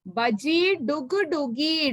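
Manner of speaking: very slow, careful re-reading; reading it again. Shown as a demonstration. Teacher rereading the rhyme line for her pupils, very slow. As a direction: take each syllable slowly for the children. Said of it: "ഒന്നുകൂടെ വായിക്കാം".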